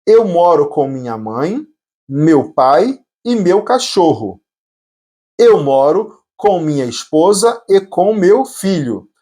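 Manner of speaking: slow, phrase-by-phrase Portuguese translation. Shown as a demonstration. Teacher explaining the answers to beginners, slowly.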